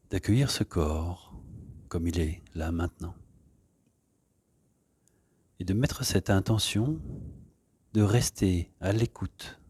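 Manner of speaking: calm, soft guiding voice with long pauses; unhurried yoga-class settling-in voice; guided meditation. Real, not acted. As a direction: ease them gently into stillness. Leads an opening meditation.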